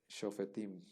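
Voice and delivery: "shofetim" con la sheva leída como vocal breve; sheva pronunciado. Shown as a demonstration. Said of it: "Sí, sí se va a leer". ("shofetim" con la sheva audible, sin omitirla)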